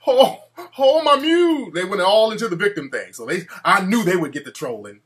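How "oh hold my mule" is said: high, loud, slowing churchy wail; a hammed-up, high church-lady lament about trolls; mocking church lady. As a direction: ham up an outraged church lady calling on the Lord. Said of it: "Oh, they were".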